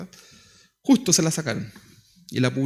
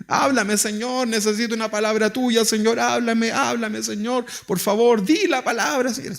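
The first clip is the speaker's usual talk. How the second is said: pleading prayer; 5 semitones higher than usual. Pretend. Acted pleading prayer to the Lord.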